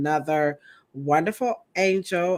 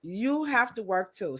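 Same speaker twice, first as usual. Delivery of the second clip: imitating her boss; 5 semitones higher than usual. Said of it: "So my boss say".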